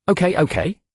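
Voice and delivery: put-on high bouncy child cry; excited child. A narrator's reading. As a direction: squeal it with joy. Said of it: "Chi Chi exclaimed".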